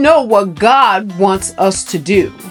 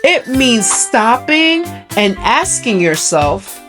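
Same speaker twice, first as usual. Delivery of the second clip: kindergarten teacher. Acted. Teaches children a word.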